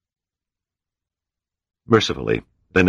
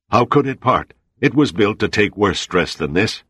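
raised voice over howling wind; shouting over storm; 5 semitones higher than usual. Acted. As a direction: call out above the gale.

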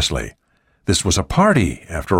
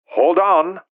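put-on Cantonese accent; 10 semitones higher than usual. A narrator's reading. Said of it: "a voice with a Cantonese accent".

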